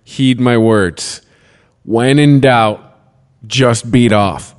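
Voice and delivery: slow, mock-solemn counsel; slow mock sermon; slow solemn advice. Real, not acted. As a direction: deliver it like a sage's wisdom. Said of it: "Guys, listen to me".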